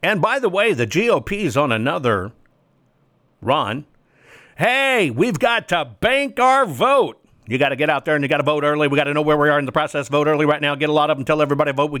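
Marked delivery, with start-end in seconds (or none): 4.6-7.2 high, mocking party-pitch voice; mocking GOP voice. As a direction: sneer out the party line in a high voice.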